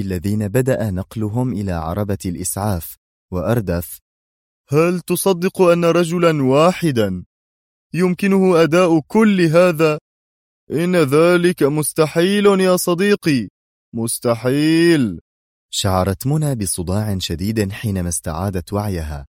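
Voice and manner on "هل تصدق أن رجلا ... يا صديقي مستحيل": high, slow, incredulous; emphatic disbelief. A narrator's reading. Policeman tells colleague one man couldn't do it, incredulous. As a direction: stretch out the disbelief, pitched up and insistent.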